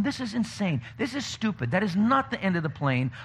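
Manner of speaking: exasperated rant. Retold or imitated. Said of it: "I'm going".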